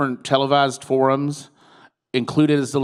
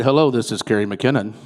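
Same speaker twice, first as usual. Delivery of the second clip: a lower, sexy phone greeting; deep phone voice; 4 semitones lower than usual. Shown as a demonstration. Candidate greets a caller in her deep sexy voice. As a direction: answer the phone low and sultry. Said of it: "you know, with that deep voice".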